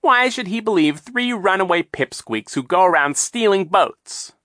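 high, loud, mocking villain voice; sly villain Captain Sham. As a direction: sneer it out like a scheming captain. Captain Sham taunts children.

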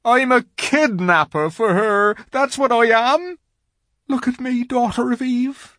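loud, high, wailing faun; anguished confession. A narrator's reading. Faun confessing to Lucy he lures children, anguished. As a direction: pour out guilt in a wail.

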